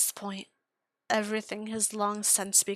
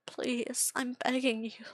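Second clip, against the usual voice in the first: whispered begging; 3 semitones higher than usual. Acted. Tortured victim begging to die.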